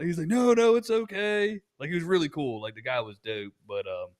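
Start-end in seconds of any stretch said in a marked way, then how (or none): 0.3-1.6 high-pitched retold brush-off of an apology; retold reassurance. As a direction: wave it away, voice pitched up. Retold reassurance from other caller.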